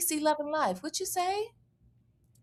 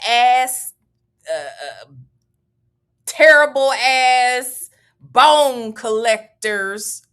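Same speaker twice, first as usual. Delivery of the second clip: mock sassy quote; 3 dB louder, slower than usual. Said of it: "Only Me twenty-three said".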